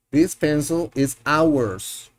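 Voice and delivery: slow classroom repeat; slow model sentence, repeated. Shown as a demonstration. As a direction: say it again slowly for them to copy. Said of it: "Este es nuestro lápiz".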